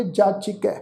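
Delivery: ਜਾਚਿਕੈ with short i after ch; short i sounded. Shown as a demonstration. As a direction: say ਜਾਚਿਕੈ as "jaa-chi-kai". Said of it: "ਚੱਚੇ ਨੂੰ ਸਿਹਾਰੀ ਦਾ ਵੀ ਪਾਠ ਉਚਾਰਨ ਕਰਾਂਗੇ".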